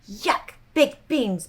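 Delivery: slow, sulky grumble about lunch. A narrator's reading. Bluster sulking over baked beans, slow and pouty. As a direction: pout the words out, dragging them. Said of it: "in a sulky voice".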